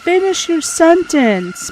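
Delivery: slow, drawn-out pleading yell; slow frustrated shout. Real, not acted. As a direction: drag it out in frustration. Yelling at dying character again.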